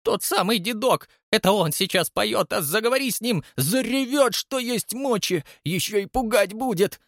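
put-on a scared woman warning about the old man; frightened concierge. A narrator's reading.

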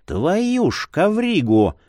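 slow, dismayed curse; drawn-out dismayed swear; Marius cursing. Acted. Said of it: "проговорил полумесяц".

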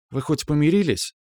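high, curious \"помирились\" with a falling end; curious question. Acted. Girl curiously asks whether he made up with his girlfriend. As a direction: ask \"помирились\" lightly and high.

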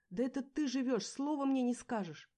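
furious shouted reproach; shouting. A narrator's reading. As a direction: yell it at the husband. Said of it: "кричала я".

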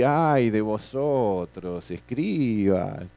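very slow, drawn-out lament; solemn lament. Retold or imitated. Imitating a student's slow, mournful reading of Jesus. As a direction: stretch each word like a sorrowful prophet. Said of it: "lo dice con ese tono así".

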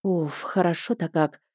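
soft, blissful exhale; quiet contented relief; relieved sigh. Acted. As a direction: breathe out the pleasure of the smoke. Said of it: "с наслаждением затянулась".

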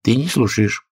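a hint of stern mouse; mildly stern rebuke. A narrator's reading. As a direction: reprove her sternly. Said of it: "строго сказала Алисе мышь".

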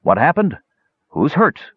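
a hint of a husky woman calling from the doorway; husky woman demanding. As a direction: demand to know who is hurt from the doorway. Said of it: "a husky feminine voice ... demanded".

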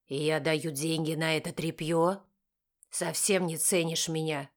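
a resentful father scolding his daughter over the dress; angry father. A narrator's reading. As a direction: scold her as a stern father. Father voiced lower.

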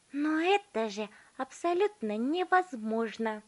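high, slow scoffing protest; indignant girl. A narrator's reading. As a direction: declare it impossible, sneering. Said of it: "заявила Верука".

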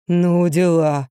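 low, slow drawn-out bloke; amazed gruff man drawling; drawling bass. A narrator's reading. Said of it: "протянул бас".

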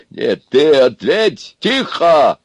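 loud, high, emphatic bark; barked order. A narrator's reading. Брюхатый silences everyone, barking. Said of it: "рявкнул Брюхатый на всех".

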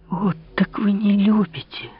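high, breathy outcry; exclaimed. Acted. Marie accuses the king of not loving her, high outcry. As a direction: cry it out, stung. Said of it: "вскричала Мария Манчини".

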